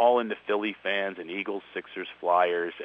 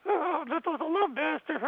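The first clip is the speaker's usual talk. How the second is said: laughing. Real, not acted. Laughing recap of guest's voice.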